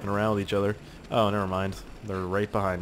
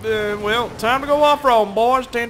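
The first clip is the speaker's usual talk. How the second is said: excited shout; 12 semitones higher, 7 dB louder than usual. Real, not acted. Excited yelling while driving.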